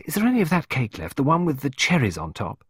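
put-on high, eager child's question; excited. A narrator's reading. Child asking stepmother about cake, excited. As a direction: ask hopefully in an excited lift. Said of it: "Pippa asked excitedly".

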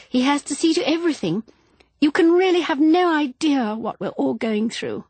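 high-pitched, harried fussing; flustered, complaining wife. A narrator's reading. Flustered Jennifer, complaining of their troubles.

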